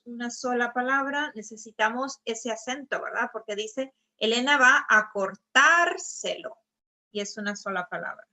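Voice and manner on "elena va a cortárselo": cortárselo with the stress on TÁR, a bit louder; cortárselo said with a firm stressed TÁR; stress the accent. Shown as a demonstration. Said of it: "pongan atención cómo en este caso".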